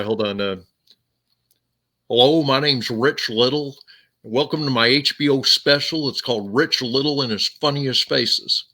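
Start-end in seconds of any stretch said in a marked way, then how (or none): 2.1-8.7 lightly voiced comedian introducing his special; Rich Little. Shown as a demonstration. Comedian welcoming viewers to an HBO special, in an imitated voice. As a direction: imitate an impressionist opening his show. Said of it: "I can do Rich Little".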